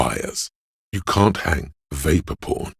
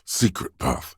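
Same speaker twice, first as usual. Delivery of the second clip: whisper; 8 semitones higher than usual. Acted. Repeating the phrase three ways.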